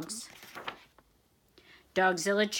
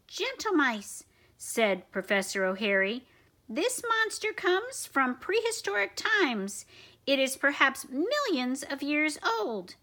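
lightly voiced professor; 2 semitones higher than usual. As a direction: explain like a calm scientist.

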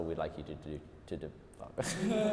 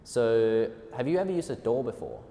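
laughing while talking; 11 semitones lower, 3 dB louder than usual. Real, not acted. Joking line, laughing.

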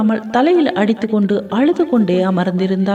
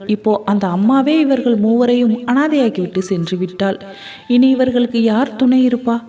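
ordinary delivery

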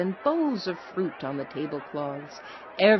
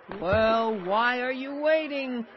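high-pitched urging call; eager cry; 6 semitones higher, slower than usual. A narrator's reading. Travelers hurrying the villagers along, crying out. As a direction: cry out high, without a full shout. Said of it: "cried the travelers".

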